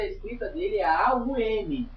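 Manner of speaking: A-U-M spelled slowly letter by letter. Shown as a demonstration. Teacher spelling A-U-M for students. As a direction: spell out A-U-M one letter at a time. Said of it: "O O e M é a pronúncia".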